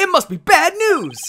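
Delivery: upbeat, excited delivery. Voicing a character whose lawyers have arrived: excited delivery. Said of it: "I should make him sound excited".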